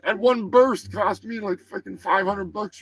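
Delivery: high-pitched, indignant turkey voice; riled-up turkey character. Acted. Turkey grumbles to host about confiscated ammunition, high and indignant. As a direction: rant high as an outraged cartoon turkey. Plays Turkey Surprise, who refuses to calm down.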